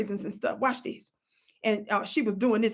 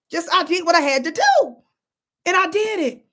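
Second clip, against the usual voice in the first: higher and louder, proud and final; triumphant declaration; 6 semitones higher, 6 dB louder than usual. Real, not acted. Vlogger boasting to viewers about winning, triumphant. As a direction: land it like a victory.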